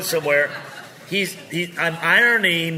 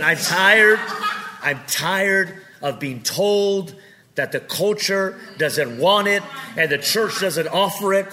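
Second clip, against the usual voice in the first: fed up; 4 semitones higher than usual. Real, not acted.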